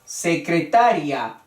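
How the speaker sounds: "Secretaria" as secreTAria in four syllables; secreTAria, falling, last vowels in one beat; stress on TA. Shown as a demonstration. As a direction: stress "ta" in "Secretaria", final "ria" glided.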